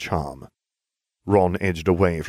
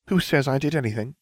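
higher-pitched, mildly haughty denial; sniffy; 7 semitones higher, faster than usual. A narrator's reading. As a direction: sniff it out as a question. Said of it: "Hermione sniffed".

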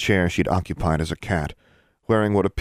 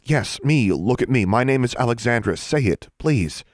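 higher, louder eager urging; eager pleading; 6 semitones higher, 4 dB louder than usual. A narrator's reading. Daughter urging her mother to remember, eager and raised. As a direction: push her to say the name, hopeful. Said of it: "Encouraged by the reaction".

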